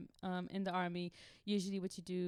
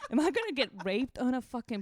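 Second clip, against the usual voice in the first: higher, louder, laughing through panic; laughing disbelief; 6 semitones higher, 8 dB louder than usual. Retold or imitated. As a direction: laugh while asking in horror. Panicked inner thoughts, laughing.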